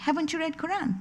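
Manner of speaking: retold calm. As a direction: ask it gently, imitating the unruffled driver. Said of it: "He was so calm".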